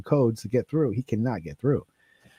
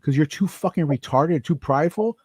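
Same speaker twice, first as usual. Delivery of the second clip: higher, pushy retold cursing at the boss; retold angry rant; 5 semitones higher than usual. To the captain, retelling the angry rant that got him fired. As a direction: rattle off the insults, heated. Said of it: "I said just like this".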